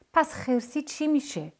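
high, slow toy voice pleading for an answer; questioning toy character. A narrator's reading. Toy presses Parviz about the bear, high slow questioning. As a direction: ask slowly in a high toy voice.

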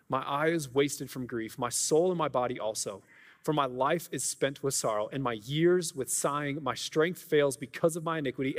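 scripture reading. Acted. Reading Psalm aloud.

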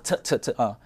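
错 drilled over and over; repeated 错 drill. Shown as a demonstration. Teacher drills the host on 错. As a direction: drill 错 several times. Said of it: "特变车了哈".

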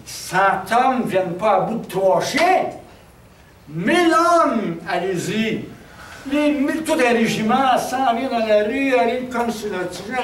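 high, loud rallying order with stretched words; commanding shout. Acted. Sending a whole regiment against three dogs, commanding shout. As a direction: escalate the orders like sending in an army. Commander sends ever more men out.

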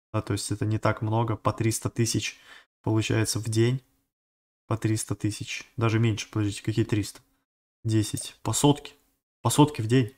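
quietly figuring it out mid-sentence; thinking aloud. Real, not acted. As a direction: drop the volume and work it out as you go. Works out daily amount to himself.

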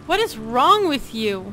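slow, drawn-out incredulous demand; defensive outrage. Pretend. Corn puff fan scolding a non-fan, defensive outrage. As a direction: stretch it out, appalled at them. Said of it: "I get really defensive of corn puffs".

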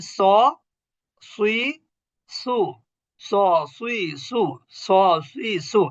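স সুই সু with a full, rounded s, tongue swelling upward. Shown as a demonstration. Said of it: "এটাও কিন্তু উঁচু ধ্বনি".

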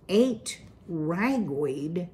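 slow, stunned, a touch of a squeak; barely getting the words out in shock; shocked gasp. Acted. The mother repeating the news, stunned and slow. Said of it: "finally gasped, her voice half gargle, half squeak".

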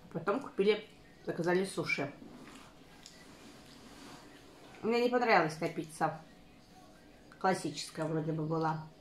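talking between bites; eating while speaking; mouth full, chewing. Real, not acted. Seen 1: Lips pressed and jaw working between words; pizza slice brought to mouth.

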